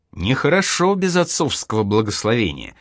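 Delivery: plain reading voice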